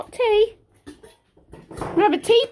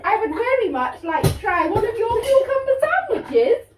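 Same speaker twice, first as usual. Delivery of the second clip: posh queen voice; 3 semitones higher than usual. Pretend. Mother plays the Queen at tea.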